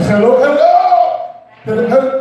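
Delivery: high, stretched mock Indian accent; worse Indian accent. Shown as a demonstration. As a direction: demonstrate an absurdly bad Indian-accented hello. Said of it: "make your accent worse than their accent".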